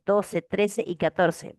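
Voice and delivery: trece y catorce said slowly, word by word; slow dictation. Shown as a demonstration. Teacher assigning homework, slow clear dictation. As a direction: dictate it slowly for the class to note. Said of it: "teacher repeats question numbers".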